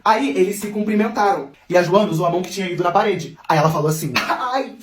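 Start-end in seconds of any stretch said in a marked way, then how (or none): 4.1-4.8 mock cry of pain, pitched up; drawn-out "ai" of a hurt hand; pained yelp. Joana, hand hurting after the wall, pained yelp.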